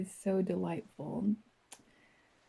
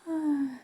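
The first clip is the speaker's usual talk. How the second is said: high, falling breathy sigh; contented sigh; 7 semitones higher than usual. Acted. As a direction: let out a satisfied sigh. Resting after imagined run to water.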